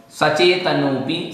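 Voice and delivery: सचेतनोपि slowly as one word, नो running into पि; joined pronunciation. Shown as a demonstration. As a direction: model सचेतनोपि without a break. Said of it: "इस प्रकार से". (सचेतनोपि को मिलाकर बोलें)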